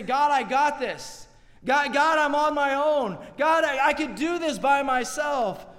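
mock-stubborn self-reliance, rising to a shout; proud believer. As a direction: play the prideful soul pushing God away.

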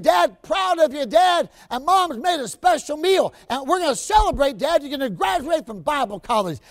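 a son telling his dad he is proud of him; young son's voice. Retold or imitated. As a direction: sound like a boy bursting with pride. Preacher voices second son.

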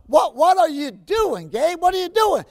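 put-on bewildered father questioning his boy; a dad puzzled by his dressed-up son; surprised dad.

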